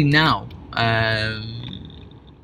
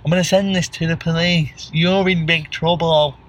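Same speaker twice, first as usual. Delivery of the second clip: through a window; 2 semitones higher than usual. Pretend. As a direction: exaggerate every word to be lip-read. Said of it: "That's how you speak through a window".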